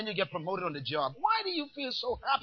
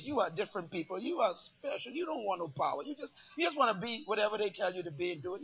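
mock flattery; 6 dB quieter than usual. Mocking the congregation.

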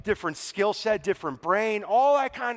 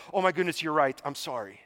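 humble apology; 4 semitones lower, faster than usual. Retold or imitated. Preacher as Paul apologizing to the council, humble. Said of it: "in his humility, immediately goes".

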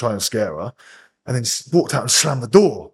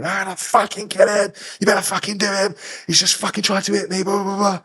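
a mock high crying rant; imitating crying scream; 6 semitones higher than usual. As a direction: play her crying and screaming, higher voice. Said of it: "She's crying, screaming".

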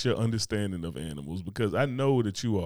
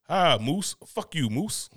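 higher-pitched bear taunt; bear attacking moose; 6 semitones higher, slower than usual. Acted. Telling co-hosts about a bear attack, mock-aggressive bear. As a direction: play a cursing bear, pitched up. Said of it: "He went".

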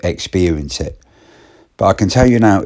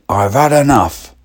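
high, louder exasperated line; fed-up snap; 7 semitones higher, 4 dB louder than usual. Retold or imitated. Woman declaring she's done, exasperated and loud. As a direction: let the patience break. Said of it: "She said".

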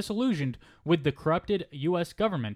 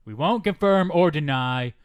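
Trump impression; 4 semitones lower than usual. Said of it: "that could have been, like, a Trump quote".

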